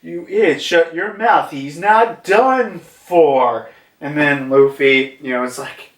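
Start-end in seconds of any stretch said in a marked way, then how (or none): 0.0-3.7 lightly higher scolding, slowing at the end; scolding Ute. Retold or imitated. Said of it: "she's like".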